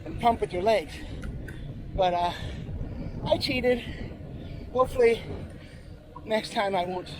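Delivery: winded from the hill climb; out of breath. Real, not acted. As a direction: talk while still catching breath. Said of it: "So I'm a little bit out of breath".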